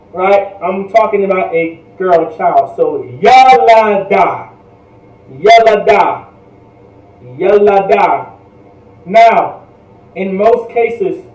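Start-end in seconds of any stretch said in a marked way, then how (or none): 3.0-8.4 slow, deliberate "Yeladah" drilled. Shown as a demonstration. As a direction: sound out "Yeladah" slowly like a teacher. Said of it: "pronouncing some of these words just like that".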